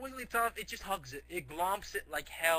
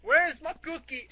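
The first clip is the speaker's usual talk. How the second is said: high, louder whining monster voice; whiny Godzilla demand; 11 semitones higher, 6 dB louder than usual. Retold or imitated. Godzilla rampages and whines for his cookie. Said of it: "He's like".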